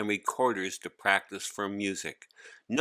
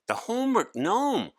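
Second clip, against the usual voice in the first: put-on much higher boy's astonished cry; exclaiming; 13 semitones higher, 3 dB louder than usual. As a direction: blurt out the name in amazement. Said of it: "Hari exclaimed".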